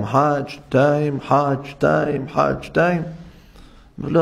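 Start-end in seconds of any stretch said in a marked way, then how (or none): 0.0-3.0 slow, measured counting of pours. Shown as a demonstration. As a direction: count each pour slowly. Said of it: "נוטל ידיים".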